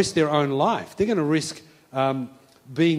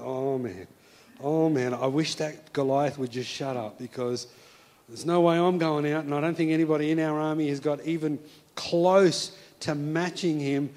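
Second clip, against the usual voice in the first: discouraged soldier; 3 semitones lower, 3 dB quieter than usual. Acted. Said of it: "feeling discouraged".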